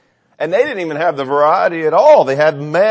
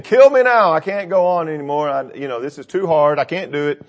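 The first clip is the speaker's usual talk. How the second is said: mock despair; 3 semitones higher than usual. Paraphrasing Moses' despair.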